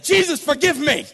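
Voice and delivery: loud, high, mock-furious prayer; angry. Driver prays for forgiveness while driving away, angry. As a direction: beg forgiveness while still fuming, hammed-up. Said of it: "I said it angry".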